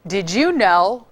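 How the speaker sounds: slow, dry sarcastic question; eye-rolling did you know. Shown as a demonstration. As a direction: drawl it with mock interest.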